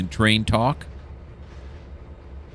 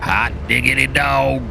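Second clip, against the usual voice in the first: delighted exclamation; 6 semitones higher than usual. Real, not acted. Delighted by the camera shot.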